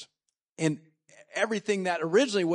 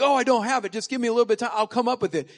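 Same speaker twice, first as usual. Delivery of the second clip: pleading; 6 semitones higher, 6 dB louder, faster than usual. Retold or imitated. Debtor pleading for time.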